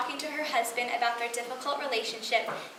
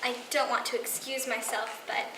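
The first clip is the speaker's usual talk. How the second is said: soft, halting admission with long pauses; subdued and contrite; remorseful confession; 8 dB quieter than usual. Acted. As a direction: confess quietly, weighing each phrase. Confession monologue to estranged husband.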